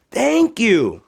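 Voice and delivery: put-on high, small voice of a worried girl; Josephine despairing. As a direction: sound defeated at the foot of a mountain. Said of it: "she said".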